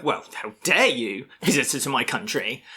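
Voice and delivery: hammed-up touch of outrage; mock indignation. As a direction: play at being offended by a visitor.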